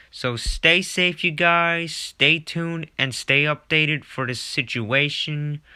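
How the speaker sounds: slow sign-off. Acted. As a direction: urge the viewers to stay safe. Anchor signing off.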